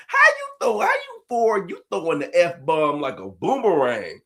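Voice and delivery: mock outrage. Real, not acted. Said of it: "mock outrage".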